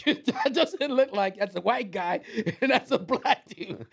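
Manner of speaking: slow, drawn-out high voice with laughter; a lightly voiced onlooker; mock customer. Restaurant stranger marveling at the odd pair, mock-slow. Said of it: "he goes".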